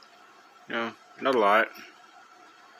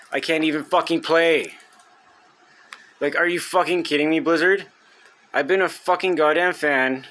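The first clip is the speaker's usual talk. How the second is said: real frustrated outburst; 4 semitones higher than usual. Real, not acted. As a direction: yell your real anger at Blizzard. Raging at failed game server.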